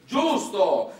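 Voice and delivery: high mock-approving exclaim; sarcastic giusto. Comedian mocks the industry's promises with sarcasm. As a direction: fake agreement, dripping irony.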